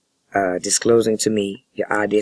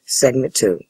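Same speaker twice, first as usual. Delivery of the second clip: hushed whisper aside; 3 semitones higher, 4 dB louder, slower than usual. Real, not acted. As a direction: whisper the label off-mic. Whispered segment announcement.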